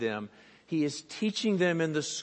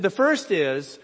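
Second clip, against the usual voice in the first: stern first rule; 6 semitones higher, 10 dB louder than usual. Retold or imitated. Stern lady laying down rules.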